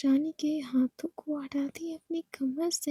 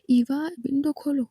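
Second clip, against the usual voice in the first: louder demanding call; shouting; 5 dB louder than usual. Acted. Ishani orders Eva to open the window, louder. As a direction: bark the order at her. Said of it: "आप चिल्ला के बात कर रही हैं".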